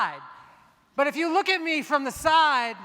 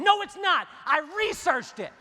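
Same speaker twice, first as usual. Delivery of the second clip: defensive denial; 5 semitones higher than usual. Pretend.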